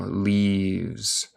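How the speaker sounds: leaves said as one syllable, livz; no final e. Shown as a demonstration. Teacher shows students leaves as one syllable. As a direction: end leaves with a plain z, no e. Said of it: "No se dice la E final".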